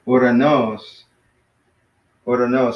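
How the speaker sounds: "uranos" with the accent on NOS; last-syllable stress. Shown as a demonstration. Teacher giving another word with the accent at the end, end-stressed. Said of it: "with the accent at the end".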